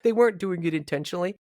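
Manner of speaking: a hint of whiny protest, imitated; Steve. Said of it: "I love your impersonation of Steve".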